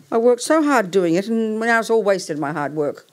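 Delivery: aggrieved complaint. Real, not acted. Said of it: "I'm getting angrier by the minute".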